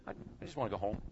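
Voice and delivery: small, soft, whimpering voice; mock pitiful plea. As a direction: sound lost and worn out at the counter. Pitiful plea at ticket counter.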